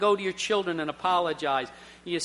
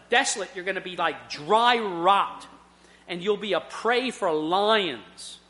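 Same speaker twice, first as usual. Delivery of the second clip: God's stern indictment. Retold or imitated. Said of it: "Here's my case against you".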